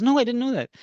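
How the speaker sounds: very high-pitched imitation of an old lady; high storytelling old-woman voice. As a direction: lightly act an old lady's reply. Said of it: "this old woman knocks on my door".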